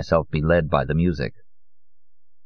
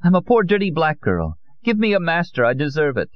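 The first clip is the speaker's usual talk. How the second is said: high, bitter outburst; high-voiced anguished anger; angry self-contempt; 11 semitones higher than usual. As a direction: lash out at yourself, pitched very high. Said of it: "said to me angrily".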